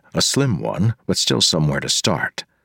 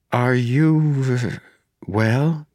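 put-on higher, careful young woman; 9 semitones higher, much slower than usual. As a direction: ask gently as a young woman. Marasi voice.

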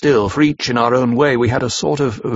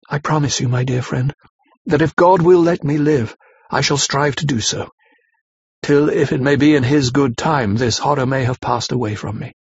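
sweetly sorrowful; 2 semitones higher than usual. Acted. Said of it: "said sweetly, but oh so sorrowfully".

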